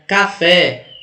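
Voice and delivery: "café" said slowly with weight on FÉ; teacher sounding out "café", FÉ strongest; stress on last syllable. Shown as a demonstration. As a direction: lean on the final FÉ of "café". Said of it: "qual é a mais forte?".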